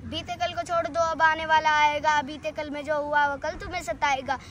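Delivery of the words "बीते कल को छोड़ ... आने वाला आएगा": firm rhythmic declamation; full-voiced recital. Full-voiced repeat of verse. (पूरे स्वर में ओजस्वी पाठ)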